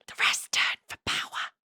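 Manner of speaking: a creepy breathy whisper; menacing whisper. A narrator's reading. The sage leaning close to Violet, whispering menacingly. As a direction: lean in and whisper the threat. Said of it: "he whispers".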